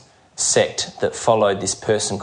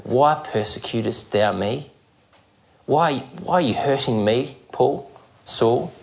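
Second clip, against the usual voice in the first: voice of Jesus; 3 dB quieter than usual. Retold or imitated. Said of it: "Jesus said those penetrating words".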